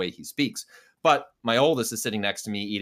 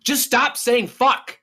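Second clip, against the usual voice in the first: high, loud, slow, laughing through it; quoting the kid while cracking up; high and slow, giggling as you say it; laughing retelling; 13 semitones higher, 7 dB louder, much slower than usual. Retold or imitated. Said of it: "turns to him and goes".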